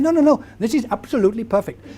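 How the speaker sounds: Indian-English voice of a local; lightly acted Hinglish accent; imitated Indian accent. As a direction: reassure in a put-on Indian accent. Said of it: "you're speaking English".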